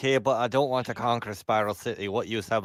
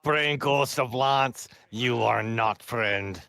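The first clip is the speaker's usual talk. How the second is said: slow; much slower than usual. Acted. Slow dismissal of the ghost.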